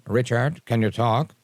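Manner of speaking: a light hint of an educated Cuban accent; a mild, friendly imitation of the professor calling; Roland impression. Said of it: "I'll do my best Roland impression".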